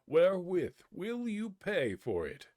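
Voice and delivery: high, loud outburst at his son; father cries out at the boy, loud and high; cried out. A narrator's reading. Father scolding his son over the ruined axe, loud high outcry. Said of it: "cried the father".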